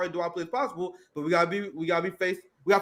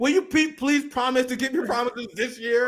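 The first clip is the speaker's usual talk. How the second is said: hammed-up pleading, pitched higher; mock pleading; 5 semitones higher than usual. Black voters begging Biden to keep promises, mock pleading. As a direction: beg Biden in a mocking whine. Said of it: "And they're like".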